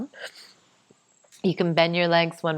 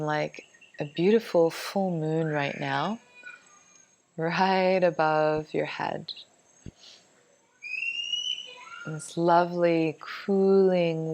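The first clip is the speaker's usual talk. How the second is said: guided meditation. Acted. Guides a colour visualization.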